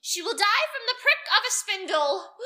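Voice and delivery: put-on crackle it out like a furious old witch; wicked fairy refusing to stay, crackling. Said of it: "she crackled".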